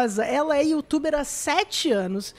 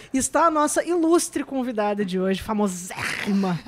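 smoker's rasp; 4 semitones lower than usual. Retold or imitated. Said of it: "uma voz de fumante".

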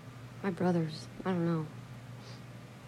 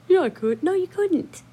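raised, louder retold squabble; mock bickering; 12 semitones higher, 5 dB louder than usual. Sister retelling her argument with her brother, bickering. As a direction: act out a childish back-and-forth.

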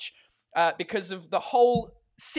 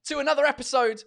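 show host opening; 5 semitones higher, 6 dB louder than usual. Acted. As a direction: greet the crowd like a live-show host. Opening his live show.

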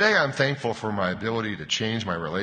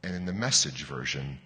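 slow, settling storytelling with long pauses; unhurried, measured scripture reading; bedtime story reading; 3 semitones lower than usual. Real, not acted. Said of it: "I'll read slowly, as if you were a child".

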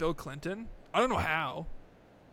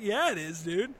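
put-on stubborn kid; 5 semitones higher than usual. His younger self defending the impression, high and stubborn. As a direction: double down, a bit defiant. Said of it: "I was like".

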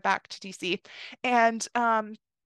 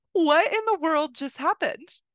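higher, louder, slow amazement; amazed disbelief; 5 semitones higher, 4 dB louder, slower than usual. Retold or imitated. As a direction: let the wonder stretch out slowly. Amazed at her luck.

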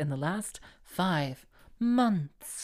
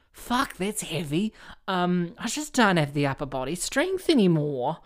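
posh Kath and Kim voice; 2 semitones higher, 4 dB louder than usual. Retold or imitated. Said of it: "I was doing that, the posh characters that they have in Kath and Kim".

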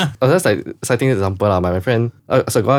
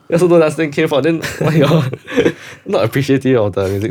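retorting friend; 5 semitones higher than usual. Retold or imitated. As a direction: fire back laughing in Singlish. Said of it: "then my friend rebutted them, say".

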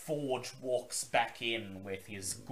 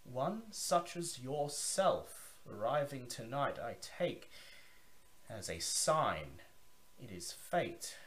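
a lightly lowered, confiding vampire host; Zachary, lowered voice. Acted. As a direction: lean in and share a secret. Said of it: "lowers his voice".

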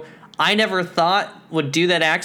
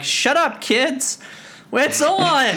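mock excited outburst; 8 semitones higher, slower than usual. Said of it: "I'd be like".

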